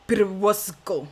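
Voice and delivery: slow, lightly accented try at the name Perusco; character accent. Shown as a demonstration. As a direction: drawl out Perusco in a mild put-on accent. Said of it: "I destroyed this name".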